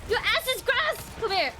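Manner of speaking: high mocking battle cry; taunting yell. Real, not acted. Streamer taunting enemy players, playful yell. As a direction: shout the threat gleefully.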